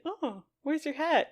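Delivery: airheaded Luffy. Acted. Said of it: "Luffy's airheadedness".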